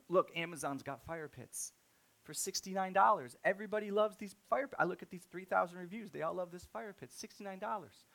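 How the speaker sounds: venting about prices to the Lowe's guy; worked-up rant. Retold or imitated. Telling the Lowe's guy about cheaper fire pits, worked up and loud. Arguing with himself to store clerk.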